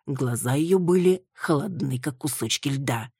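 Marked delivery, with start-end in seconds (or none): none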